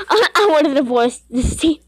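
giggly, joking complaint ending in high laughter; laughing mock despair. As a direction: say it through bursts of laughter. Repeats joke about team, laughing.

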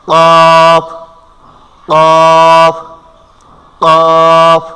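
qaf pushed out loud from the back of the tongue; letter demo. Shown as a demonstration. Teacher drills কফ for students, loud and forceful. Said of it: "একটু ধাক্কা অনুযায়ী".

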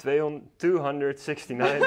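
laughing through the number. Real, not acted. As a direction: chuckle while saying it. Laughs while translating the address.

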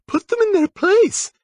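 put-on high, grim girl voice; grim pixie captain. A narrator's reading. Ophelia urging the boys on, grim. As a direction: grimly, still in her high voice. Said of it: "she'd said grimly".

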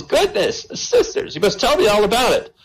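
very high, shocked prim nun voice; a scandalised Mother Superior squealing for gossip. Acted.

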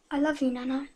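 soft, fading last words; weak voice. Acted. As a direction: let the words fade out. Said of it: "his voice weak".

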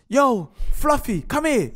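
high, drawn-out "yo" to hail someone; calling out. Retold or imitated. Friend mimicking his mate hailing people in Jamaica, calling out. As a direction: imitate a mate hailing a passer-by.

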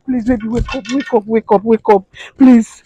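high, loud sobbing pleas; tearful begging. Acted. Wife begging her husband to wake, sobbing plea. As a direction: keep begging him through tears.

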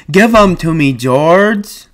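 put-on a big man begging like a child; Lenny pleading. A narrator's reading. Lenny begging George for the puppy, high and pleading.

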